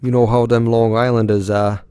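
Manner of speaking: hammy fake New York accent. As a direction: lay on a Long Island New York accent. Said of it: "with my fake New York accent here".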